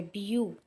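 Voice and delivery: ब्यू as one long vowel glide; long sound. Shown as a demonstration. Teacher showing a diphthong, ब्यू with a long sound. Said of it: "एक long sound बन जाती है".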